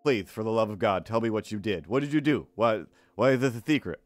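lightly voiced lisping character pleading; lisping, exasperated sidekick. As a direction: beg with a thick lisp. Puppet sidekick begs to be told.

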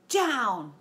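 loud command; shouted order; yell. Acted. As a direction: bark it at the bull. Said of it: "Tyson yelled".

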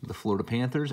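slightly sick voice, under the weather; feeling sick. Real, not acted. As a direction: talk through a mild cold. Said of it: "I'm a little under the weather".

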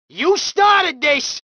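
slow angry shout. Acted. Thug in a fight.

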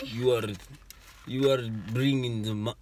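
halting, faint attempt at a Russian accent. Parent retrying their best accent, faint Russian. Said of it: "my best one is a Russian one".

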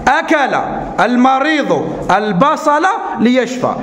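slowly reading the sentence aloud. Shown as a demonstration. Teacher rereading the sentence slowly to the class. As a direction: drag the words so kids catch them. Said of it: "نعاود الجملة".

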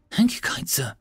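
high, breathless gratitude; high-pitched delighted character voice; gasped thanks. A narrator's reading. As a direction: gasp your thanks in relief. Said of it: "she gasped".

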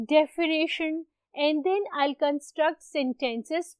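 slow, spaced-out dictation pace; unhurried teacher dictating to the class; deliberately slow dictation. Shown as a demonstration. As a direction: speak slowly so students can write it down. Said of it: "I purposely speak this slowly".

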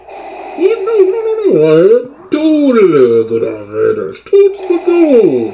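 Bane voice. Acted. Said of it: "moop in the Bane voice".

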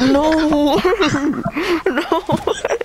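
shocked disbelief. Real, not acted. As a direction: gasp it out in shock. Reacting to amazing kill.

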